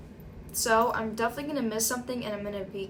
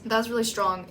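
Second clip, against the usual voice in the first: right after a hot sip; talking just after swallowing tea; sipping hot tea. Real, not acted. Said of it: "let me take a sip of my tea".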